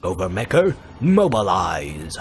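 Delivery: mock heroic command; commanding president. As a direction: call the robot into battle. President summons robot.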